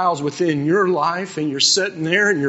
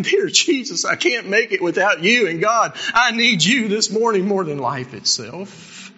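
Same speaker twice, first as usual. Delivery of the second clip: pleading prayer; 4 semitones higher than usual. Retold or imitated. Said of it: "There's nothing wrong with saying".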